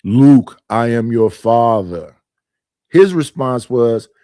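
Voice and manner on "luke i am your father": slow, lightly voiced Vader line; a hint of a mock Vader; joking movie-villain line, slow; Darth Vader quote. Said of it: "I jokingly said".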